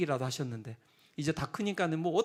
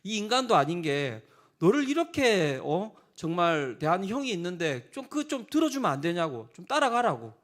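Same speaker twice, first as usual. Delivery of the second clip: louder, exasperated scolding, retold; angry mother; 4 dB louder than usual. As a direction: imitate a fed-up mother telling off her child. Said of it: "어머니가 아예 나중에는 화를 내셨어요".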